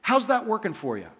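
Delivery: a dry, teasing question; wry, knowing. Shown as a demonstration. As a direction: ask it like you already know the answer. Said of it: "We would say it like this".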